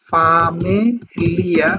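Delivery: ফামেলিয়া slow, e vowel and hard l; ফামেলিয়া drawn out the wrong way; ফামেলিয়া, mistaken Bengali-style reading; wrong pronunciation. Shown as a demonstration. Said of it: "বিষয়টা এরকম হবে না".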